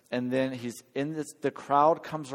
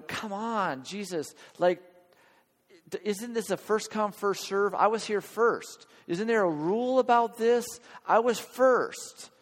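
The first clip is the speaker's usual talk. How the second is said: higher, pushy and indignant, like a man cut in line; impatient Jairus; 5 semitones higher than usual. Retold or imitated. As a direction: whine that you were here first, pitched up. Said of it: "Jairus is probably going".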